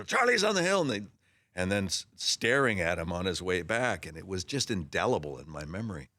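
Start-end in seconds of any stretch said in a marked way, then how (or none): 0.0-0.8 mild mock yell. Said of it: "such a big deal".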